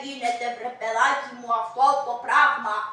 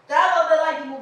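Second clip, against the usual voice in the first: firm, louder push; loud urging; 6 dB louder than usual. Acted. Servant loudly orders the old man to go. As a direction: bark him off, louder.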